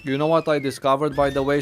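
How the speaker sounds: talking with a mouth full of chips; words round a mouthful. Real, not acted. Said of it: "Sorry to be talking with my mouth full".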